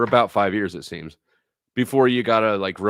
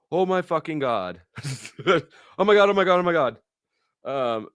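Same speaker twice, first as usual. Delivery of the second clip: higher, squealing delight building then trailing off; overjoyed gasp; 7 semitones higher than usual. Pretend. Receiving an enemy's arm, thrilled high squeal. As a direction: gush like you got the perfect present. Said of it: "I'd be like".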